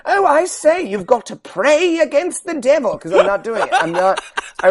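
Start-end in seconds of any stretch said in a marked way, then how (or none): 0.1-3.0 hammed-up posh British accent, pitched much higher; a high, prim British lady; mock British accent. Host mocking a film character in a British accent. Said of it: "I'm going to give her a British accent".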